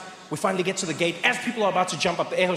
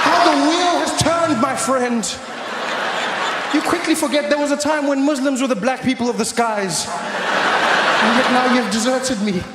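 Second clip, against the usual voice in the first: higher, loud theatrical outrage; mock betrayed rant; 6 semitones higher, 5 dB louder, slower than usual. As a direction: rant at the traitor with hammed-up drama.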